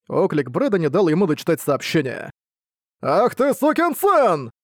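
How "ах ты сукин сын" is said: excited exclamation. Acted. Brad's joking friendly insult.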